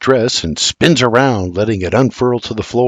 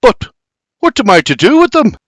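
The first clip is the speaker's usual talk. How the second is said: high, pleading whine; whining; 11 semitones higher, 4 dB louder than usual. A narrator's reading. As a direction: complain like a scolded boy. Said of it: "he whines".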